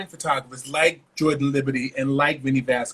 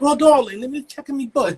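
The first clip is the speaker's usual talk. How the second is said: mock posh British accent, pitched high and loud; Naomi's awful accent; 9 semitones higher, 5 dB louder than usual. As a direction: ham up a bad British accent as the supermodel. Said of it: "that was an awful accent".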